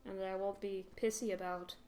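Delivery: a faint, bad Scottish accent, barely there; lightly voiced Scottish dwarf, clumsy attempt; half-hearted Scottish accent for the know-it-all dwarf; terrible Scottish accent. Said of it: "That's my terrible Scottish accent".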